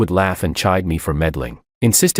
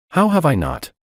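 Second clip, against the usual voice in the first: mildly indignant, higher-pitched comeback; retort; 9 semitones higher than usual. A narrator's reading. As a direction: shoot it back, pitch raised. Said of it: "Emily shot back".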